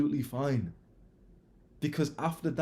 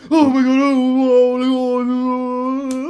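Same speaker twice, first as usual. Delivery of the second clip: very high, loud panicked cry; mock-panic over a bleeding child; hammed-up frantic mother; panicked mum; 14 semitones higher, 16 dB louder, much slower than usual. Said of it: "What do you think my mum did?".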